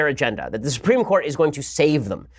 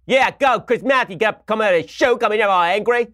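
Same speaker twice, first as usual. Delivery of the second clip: mock cheer; 7 semitones higher than usual.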